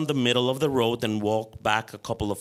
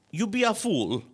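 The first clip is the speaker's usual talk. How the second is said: put-on much higher, scornful Croatian-accented jab; gruff uncle snapping in his Croatian accent; irritated Croatian accent; 10 semitones higher than usual. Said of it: "irritated in his rough accent".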